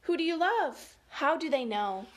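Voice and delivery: put-on lilting, emphatic read-aloud for children; story time delivery; picture-book reading. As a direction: read each feeling word out clearly, with lift.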